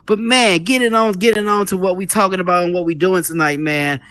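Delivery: talking while winded, catching breath; breathless after rapping hard. Real, not acted. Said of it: "if I'm out of breath".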